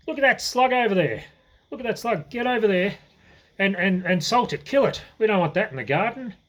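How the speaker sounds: high, eager voice pushing her on; excited urging. Retold or imitated. Grandfather urging grandma to kill slug.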